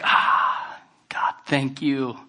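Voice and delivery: slow, hushed whisper of thanks; whispered prayer. Retold or imitated. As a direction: breathe it as a private prayer. Retelling his prayer under conviction.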